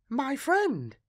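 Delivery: put-on high, dreamy child voice; a strange girl sharing a secret; eerie little girl. A narrator's reading. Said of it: "she said".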